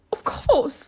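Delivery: high turtle voice; Mock Turtle. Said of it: "the Mock Turtle said".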